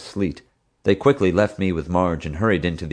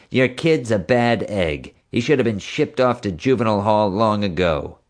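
taunting; 3 semitones higher than usual. Acted. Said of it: "Marge taunted".

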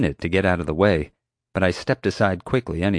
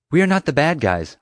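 higher, insistent explanation; pressing, raised-pitch protest; urgent protest; 8 semitones higher, 4 dB louder than usual. A narrator's reading. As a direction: set a mistaken guard straight. Protesting to an armed guard.

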